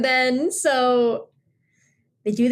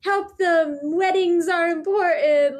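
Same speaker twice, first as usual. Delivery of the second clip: put-on insistent girl; 9 semitones higher, slower than usual. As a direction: push hard for helping the couple. Hanayu insists to her dad.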